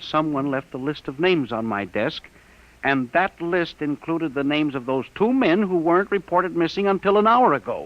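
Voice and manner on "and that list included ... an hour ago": building higher and louder to the end; rising alarm. Acted. Man telling Charlie about the list, building alarm. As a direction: let the alarm climb.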